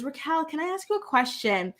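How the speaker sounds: softly imitating a sweet, polite mom; nice, calm, sweet. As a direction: put on a gentle, courteous asking voice. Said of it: "in this nice, calm, sweet tone".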